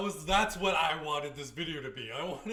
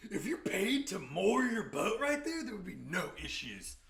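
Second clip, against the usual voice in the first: higher and louder, mocking the woman's complaint; mocking Karen imitation; 4 semitones higher, 4 dB louder than usual. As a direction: parrot her snippy line back at her. Mimicking the woman on the boat.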